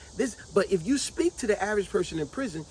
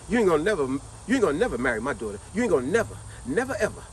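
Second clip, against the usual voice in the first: mother's endless refusal; faster than usual. Retold or imitated. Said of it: "as they said on Flavor of Love".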